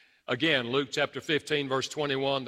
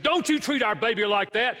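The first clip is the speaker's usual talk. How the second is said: retold mother's rebuke; 9 semitones higher, 4 dB louder than usual. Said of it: "I grabbed the baby and said".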